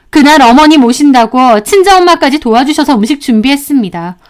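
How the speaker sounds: indignant daughter-in-law talking back; mildly heated, pointed retort; standing up for herself. Acted. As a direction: protest firmly, holding nothing back. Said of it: "저도 이번엔 참지 않고 얘기했습니다".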